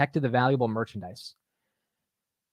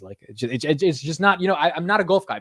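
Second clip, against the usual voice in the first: ordinary delivery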